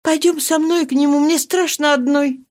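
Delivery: high, frightened plea; barely audible. Acted. Marie begging Marianne to come with her: frightened. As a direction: ask her to come along, scared. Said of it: "говорила едва внятно".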